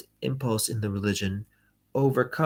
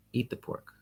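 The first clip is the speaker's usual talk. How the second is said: mock threat; 4 semitones higher, 7 dB quieter than usual. Host pointing a gun at his guest, a breathy mock threat. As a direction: say it like a gunman's quiet command.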